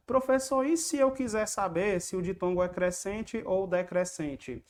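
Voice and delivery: lightly voiced student. Student asking the teacher about the diphthong, lightly imitated.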